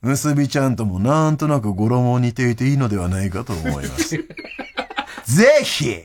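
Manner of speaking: emphatic, drawn-out read-out; listener mail reading. Acted. Host pitching a listener's baby-name idea, formal mail reading. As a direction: present it like a formal proposal. Reads listener's closing request.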